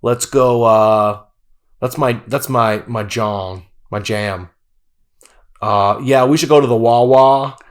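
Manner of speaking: put-on mumbly Pennsylvania accent, marbles in mouth; lightly done Philly accent. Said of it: "with marbles in their mouth".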